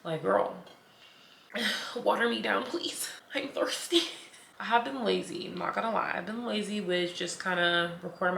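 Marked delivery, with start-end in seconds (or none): 0.0-4.0 huffing and puffing between words after the workout; panting through the words, slowed down; out of breath. Real, not acted. Winded after the gym, talking to her viewers. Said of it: "I am just out of breath".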